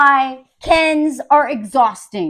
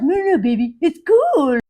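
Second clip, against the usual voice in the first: placating, climbing to a high yell; Noah; 6 semitones higher, 5 dB louder than usual. Retold or imitated. Husband telling upset wife to relax, mock soothing turning shrieky. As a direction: start soothing, end high and loud, mocking. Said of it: "is like".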